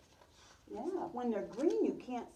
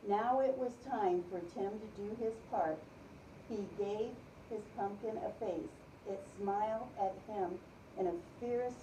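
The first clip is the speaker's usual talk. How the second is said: storybook read-aloud for a class; gentle read-aloud voice; reading to children. Acted. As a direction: tell it like a picture book to little kids. Teacher reads picture book aloud.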